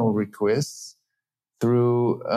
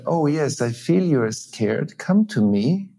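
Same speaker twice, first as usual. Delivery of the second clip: empathic invitation; 4 semitones higher than usual. Shown as a demonstration. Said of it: "But if I say to my child".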